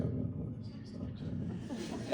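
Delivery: barely voiced, half-whispered mumble; mock a shy actor mumbling it away; mumbled quiet. Actor imitating a shy castmate's mumble at a read-through. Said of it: "people just go".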